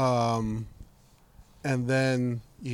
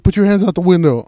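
mock cop order; 6 semitones higher, 7 dB louder than usual. Cop orders them out of car.

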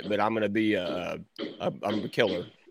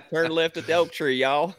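put-on country accent; 4 semitones higher than usual. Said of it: "act like a country accent".

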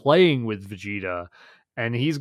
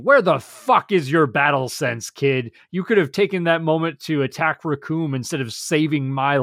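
indignant retold scolding, a bit louder; mock yell, Vegeta; 3 semitones higher, 4 dB louder than usual. Fan retelling Vegeta yelling at Gohan, mock-indignant. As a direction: imitate an angry telling-off, pushing the pace as it goes. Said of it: "Vegeta has the gall to yell at Gohan".

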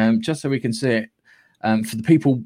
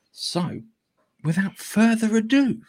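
announcer; 8 semitones higher, slower than usual. Acted. Showman segue to news.

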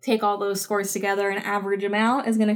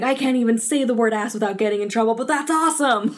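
put-on kid's delight; 4 semitones higher, 3 dB louder than usual. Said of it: "being like".

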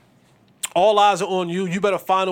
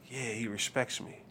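smug aside; 8 semitones lower, 14 dB quieter than usual. Retold or imitated. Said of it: "And I'm like".

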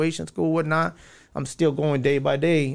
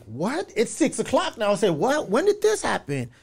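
raised, startled retelling of his own shock; retold disbelief; 5 semitones higher than usual. Telling his homie what he said when he heard, startled. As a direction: replay the moment the news hit. Told of friend's arrest.

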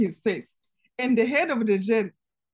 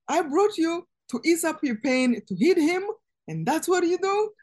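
higher-pitched, accusing and indignant; indignant scolding, rising in disbelief; retold angry reproach; 6 semitones higher than usual. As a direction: imitate a jail chief turning on her. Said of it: "So he was mad".

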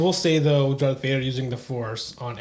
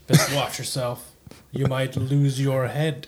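lightly voiced Vader, slow and deliberate; a hint of a menacing Darth Vader, drawn out; Vader line; slower than usual. Co-host imagining Vader's missing quip, slow lightly menacing. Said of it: "was waiting for some line".

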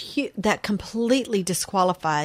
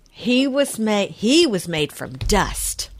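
chewing chocolate, slow; words around a mouthful; eating chocolate; slower than usual. Real, not acted. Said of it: "I'm smacking".

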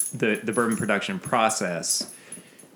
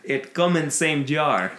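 slow, heavy mock Russian accent; joking Russian accent, slowed down; 5 semitones higher than usual. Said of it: "My, my Russian accent stems".

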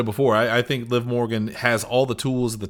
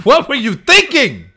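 laughing; 12 semitones higher, 5 dB louder than usual. Real, not acted. Laughing disbelief at partner's joke.

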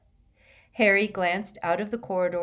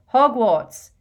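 loud, raised call of a destination; shout; 5 semitones higher, 11 dB louder than usual. A narrator's reading. Harry calling out from the emerald fire, shouted. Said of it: "and shouted".

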